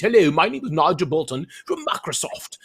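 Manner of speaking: hammed-up bad British accent; badly faked British accent. Interviewer mimicking a company executive for the host, mock British accent. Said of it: "with a British accent".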